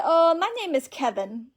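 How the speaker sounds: high, loud put-on caller voice; mock scammer Kevin. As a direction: parody the fake name eagerly. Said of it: "He said".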